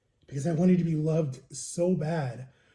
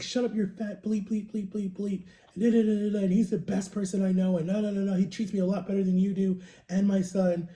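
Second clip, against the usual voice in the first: higher-pitched retold rant with bleeped swearing; mock cussing out; 3 semitones higher than usual. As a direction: rattle off a censored tirade in a raised pitch. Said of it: "like, cussed them out".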